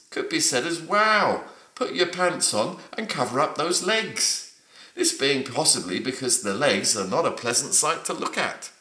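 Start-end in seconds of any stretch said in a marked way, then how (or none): 0.8-4.5 high-pitched, mildly surprised wow; surprised exclamation. Shown as a demonstration. Teacher translating the slang sentence for learners, mildly surprised. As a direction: lift the pitch in mild surprise. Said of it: "struth is a way of expressing surprise".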